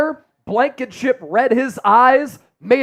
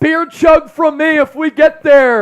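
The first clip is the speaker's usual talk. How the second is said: loud, high hyped promise; excited shout; 4 semitones higher, 4 dB louder than usual. Real, not acted. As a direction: pump up the viewers. Promising beer chug, hyped.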